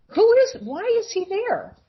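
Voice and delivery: very high, baffled questioning; retold startled thought, pitch jumping up; alarmed bewilderment. To herself about the man in her doorway, high and baffled.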